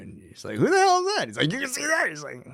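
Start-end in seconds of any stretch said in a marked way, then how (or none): 0.6-1.3 high, shocked squeak; mock-startled high cry; imitating a shocked Sawyer. Sawyer voiced seeing the boy. 1.5-2.1 high, incredulous question; mock disbelief, pitched way up; imitating an astonished Locke; surprised.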